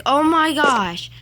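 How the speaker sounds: high, drawn-out mock gasp of disbelief; mock shock. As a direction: imitate someone scandalized, stretched and high. Retold shocked reaction, later corrected.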